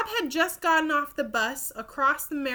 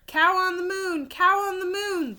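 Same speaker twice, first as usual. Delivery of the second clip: higher, louder alarmed shout; 9 semitones higher, 5 dB louder than usual. Acted. Guard finding the cow on the lunar exhibit, loud shout. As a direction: raise the alarm, calling it out twice. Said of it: "the guard shouted".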